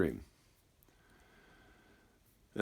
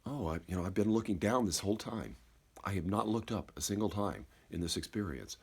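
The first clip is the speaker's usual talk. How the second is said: soft third voice; 3 semitones lower, 6 dB quieter than usual. Acted. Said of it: "sort of that third voice".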